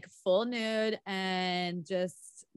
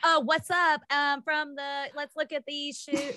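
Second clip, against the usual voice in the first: put-on valley girl voice; 6 semitones higher than usual. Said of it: "she's like".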